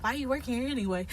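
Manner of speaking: words breaking into a laugh. Real, not acted. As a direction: giggle it out quickly.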